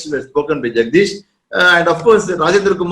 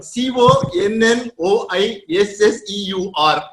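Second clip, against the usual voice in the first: letter by letter, slowly; spelled out. Shown as a demonstration. Asking lawyer about the word's pronunciation, spelling it slowly. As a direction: spell the word out one letter at a time. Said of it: "the pronunciation of the word".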